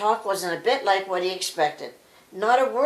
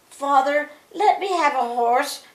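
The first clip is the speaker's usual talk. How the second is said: higher, louder plea to father; crying out; 6 semitones higher, 4 dB louder than usual. A narrator's reading. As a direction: call out eagerly for a horse. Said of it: "cried Claude Pole".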